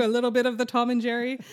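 quick, lightly voiced old radio announcer; a touch of a vintage radio host, fast; old-timey radio announcer. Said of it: "I did more like old-timey radio announcer".

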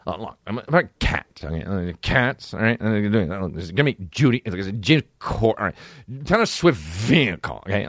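halting, low imitation of a manager's pitch; Josh. Manager pitches the cast to his client, mock impression. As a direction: sell the part in fussy little bursts. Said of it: "the way Josh says Cats".

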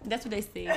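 "say" turned into "see"; mimicked island pronunciation. Teasing a friend's island accent, "say" as "see". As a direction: imitate the island vowel in "say". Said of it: "not say".

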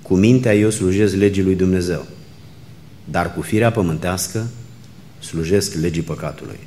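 measured, emphatic Bible reading aloud; Scripture reading. Acted. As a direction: read the passage out to a congregation, phrase by phrase. Reads Scripture aloud to congregation. (citire solemnă din Scriptură)

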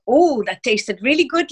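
a hint of Welsh, trailing into "like"; mildly put-on Welsh turn of phrase; Welsh expression. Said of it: "very Welsh type of expression".

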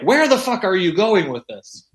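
high, exasperated wife voice; imitating wife. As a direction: play the baffled wife. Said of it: "my wife is like".

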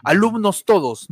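grand poetry declamation. Acted. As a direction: address the class like a poet on stage. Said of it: "cómo dicen cuando declamas una poesía".

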